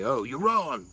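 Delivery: acted-out "gotcha" objection; mock contradiction. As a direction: pretend to call someone out, loudly. Acts out dismissing someone's opinion.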